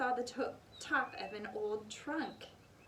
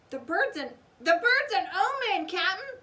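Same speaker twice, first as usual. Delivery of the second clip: louder, higher alarmed shout; fearful shout; 9 semitones higher, 9 dB louder than usual. A narrator's reading. Stinky warns the captain, loud and alarmed. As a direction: cry it out in alarm. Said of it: "shouted Stinky".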